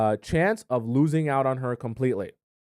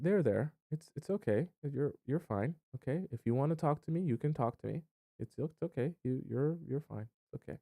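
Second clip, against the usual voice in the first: softer, patronising there-there comfort; mock soothing; 9 dB quieter than usual. Girlfriend calming the upset boyfriend, mock soothing and softer. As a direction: pat him on the head with your voice, softer.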